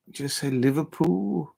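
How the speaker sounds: slow, drawn-out Scouse on Liverpool; attempted Scouse accent. Shown as a demonstration. Fan practising the city's name, tentative Scouse accent. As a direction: try Liverpool in Scouse, stretching it out. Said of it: "a Scouser's accent".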